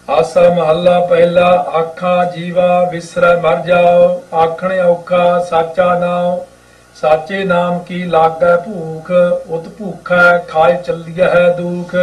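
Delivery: slow, measured chanting read of the hymn; unhurried gurbani recitation; scripture recitation. Acted. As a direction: recite each word slowly and devoutly.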